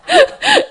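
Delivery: sudden high laugh; high burst of laughter. Real, not acted. Laughs at her own complaint. (높은 웃음 터뜨림)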